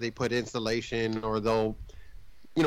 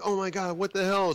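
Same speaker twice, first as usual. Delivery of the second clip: higher-pitched mock alarm; retold freak-out; 5 semitones higher than usual. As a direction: act out someone freaking out. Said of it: "they're, like, freaking out".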